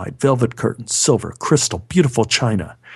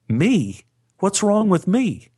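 indignant surprise; 8 semitones higher, slower than usual. Retold or imitated.

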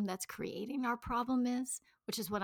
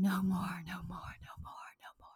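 mock body screaming; 3 semitones lower, 5 dB quieter than usual. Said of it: "my body was just screaming".

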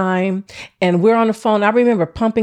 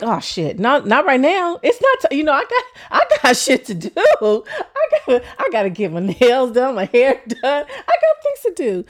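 squeaky, higher, rushed protest; hammed-up panic at bad timing; flustered panic; 4 semitones higher than usual. Water breaks before hair appointment.

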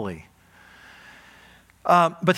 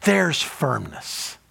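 acted elated relief; 2 semitones higher, much slower than usual. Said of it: "this is this moment of like".

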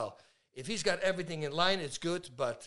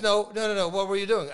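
mock insistent; 4 semitones higher, 6 dB louder than usual. Cousin pressing.

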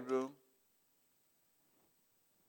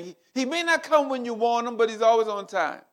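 quoting a saying; 7 semitones higher, 4 dB louder than usual. Retold or imitated. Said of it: "we say".

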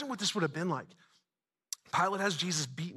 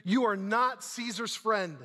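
slow, higher-pitched warning cry; drawn-out accusing cry, raised pitch; 5 semitones higher, slower than usual. Acted. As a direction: call it out slowly as a crowd's threat. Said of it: "the Jews cried out".

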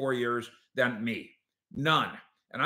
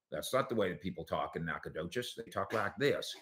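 imitated Texas accent; 7 semitones lower, 10 dB quieter than usual. Marsha critiquing TV accents to her husband, imitated Texas accent. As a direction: imitate a Texan correcting TV accents, quietly. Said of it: "You should hear Marsha when we watch, uh, T V shows with accents".

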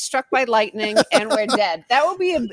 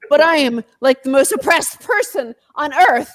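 mock Max outrage. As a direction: ham up a privileged man's grievance. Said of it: "When Max does the outrage face".

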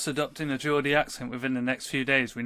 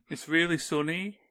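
higher, mock-glum Birmingham lilt; miserable Birmingham accent; 4 semitones higher than usual. Joking about cheerful Brummies, miserable Birmingham accent. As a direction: give good news in a dreary Birmingham accent. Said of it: "something about the Birmingham accent".

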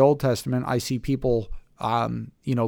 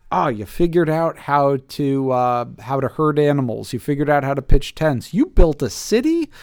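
mock-impressed; 3 semitones higher, 4 dB louder than usual. Mock praise of early humans' achievements.

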